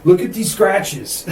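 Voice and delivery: slow, high, loud mock fright; hammed-up scared ghost hunter; spooked ghost hunter. Replaying spooky video scene.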